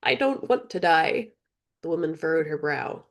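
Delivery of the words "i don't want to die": put-on high girl's voice, half laughing; choked out. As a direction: choke it out through nervous laughter. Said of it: "Philothea choked".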